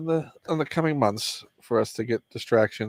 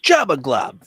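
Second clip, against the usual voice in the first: monster voice; 5 semitones higher, 6 dB louder, slower than usual. Pretend. Repeating the toy name in a voice.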